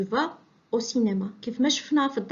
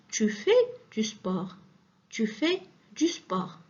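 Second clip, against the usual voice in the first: 1 slow statement; much slower than usual. Shown as a demonstration. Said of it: "Écoutez".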